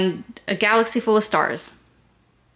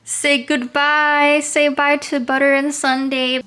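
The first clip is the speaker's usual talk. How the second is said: pet voice; 8 semitones higher, 4 dB louder than usual. Pretend. Talking for the pets at goodbye.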